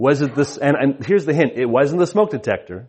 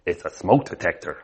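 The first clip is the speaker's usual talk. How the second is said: put-on little boy; 6 semitones lower, 5 dB quieter than usual. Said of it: "What is it, Bubba?".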